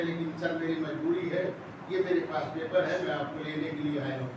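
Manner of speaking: low, soft, deferential junior officer; very respectful. Acted. Junior officer come to arrest his old superior, very respectfully. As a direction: speak softly and humbly to a superior. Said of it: "بڑے ادب سے".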